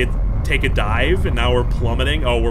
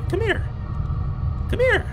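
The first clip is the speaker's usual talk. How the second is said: much higher sing-song coaxing. Real, not acted. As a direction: coax it like calling a pet. Coaxing a creature closer.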